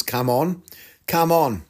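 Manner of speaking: "come on" with a drawn-out vowel, Vietnamese style; "come on" as "cahm on"; Vietnamese thank-you. Shown as a demonstration. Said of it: "I learned how to say".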